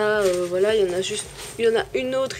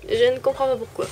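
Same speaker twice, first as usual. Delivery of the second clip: puzzled surprise; 4 semitones higher, 4 dB louder, faster than usual. Real, not acted. Brush damaged yet never used.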